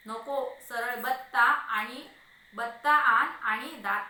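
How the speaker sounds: loud, drawn-out order; exasperated demand. Acted. Husband refusing remedy and demanding a pestle, exasperated. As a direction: belt out the command.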